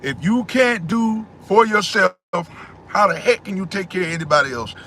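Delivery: slowed right down and shouting the first half; emphatic repeat. Real, not acted. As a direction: drive it home word by word, calling out. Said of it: "I'ma say that again".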